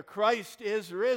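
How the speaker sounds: high, loud and drawn out, rising at the end. Real, not acted. Pastor asking the online congregation to answer, loud rising call. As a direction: stretch risen and lift it up to the people at home. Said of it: "I want to hear you out there".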